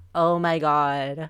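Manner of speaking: exaggerated, laid-on, put-on camp voice. Describing having fun with voice practice: traditional gay voice. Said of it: "putting on the traditional gay voice and going".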